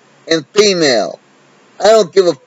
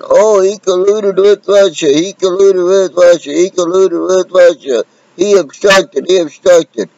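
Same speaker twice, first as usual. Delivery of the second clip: mocking libtards; 4 semitones higher than usual. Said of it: "All the libtards are screaming".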